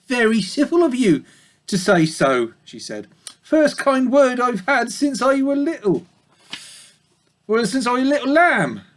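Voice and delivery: high, softened sheep voice; old ewe touched by the pig's kindness; pleased old ewe. Acted. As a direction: thank him gratefully as an old ewe.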